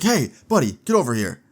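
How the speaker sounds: retold sharp hail; mock police call. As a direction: imitate a cop hailing someone down the hall. Cops calling out to Justin.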